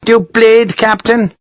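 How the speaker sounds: high-pitched, abrupt officer's demand; barking colonel. A narrator's reading. Colonel questioning a visiting captain, barked.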